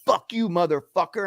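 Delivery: high-pitched imitation of a cursing man; retold yell, held back in volume; mock angry retort. Cabbie bows up at passenger in street, mock angry.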